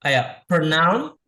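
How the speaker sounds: pronoun said slowly, rising at the end; syllable chunk. Shown as a demonstration. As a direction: prompt the class with the first chunk. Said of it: "diputus-putus".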